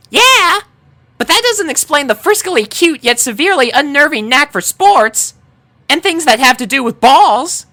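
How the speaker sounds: very high, bubbly chatter; giggly Pinkie. A narrator's reading. Pinkie jokes to the group, very high and giggly. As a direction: babble it with a giggle. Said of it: "Pinkie giggled".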